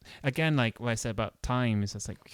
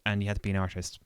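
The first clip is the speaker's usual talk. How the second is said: deadpan mock-serious rules; sarcastic, as if laying down law. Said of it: "hear my sarcasm there".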